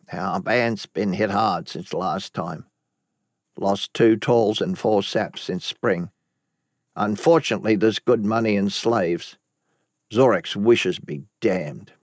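a lightly voiced bitter old man; grim old man. Reynard's grim report.

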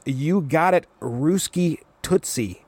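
slow cocky drawl of Ruski Tootsie; a lightly voiced brash teen; drawn-out smug nickname. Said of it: "Wheeler goes".

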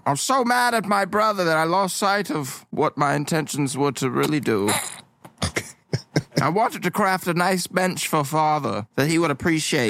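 earnest son. Acted. Player voices the son Beans.

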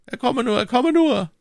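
high, eager summons; lively call. A narrator's reading. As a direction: call him in with lively urgency, high-pitched. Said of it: "rief der Kardinal lebhaft". (lebhafter, hoher Ruf)

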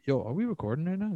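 hammed-up dude asking if tape is rolling; mock bro podcaster. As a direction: imitate a clueless podcast host. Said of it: "If it starts with".

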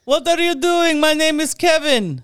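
high, loud mock voice; exaggerated patriotic put-on voice; hammed-up all-American persona. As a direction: bellow it like an overeager fake American. Both play Igor as American Kevin.

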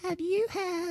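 high, put-on commercial announcer voice. Reciting an ad at breakfast to make mom choke, hammed-up high ad voice. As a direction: ham up the ad read. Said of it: "I do it in my voice like this".

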